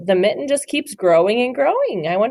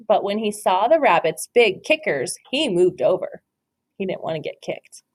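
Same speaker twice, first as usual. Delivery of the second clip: story narration. Acted. Teacher reads The Mitten to her class, storybook voice. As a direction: read it like a picture book for little ones. Reads picture book aloud.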